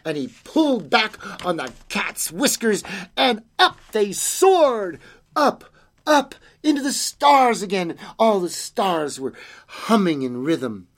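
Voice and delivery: animated storytelling with swooping pitch; story narration. A narrator's reading. Reader tells children of a night visitor, animated storytelling. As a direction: draw the listeners in, leaning on key words.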